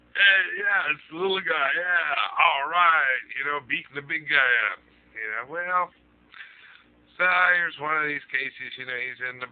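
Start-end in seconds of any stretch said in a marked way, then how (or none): 0.1-3.2 high, loud mock cheer from the crowd. Bar crowd cheering the little guy on, mock whooping.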